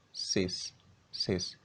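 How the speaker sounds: "sis" with an unvoiced s; hissed ending. Shown as a demonstration.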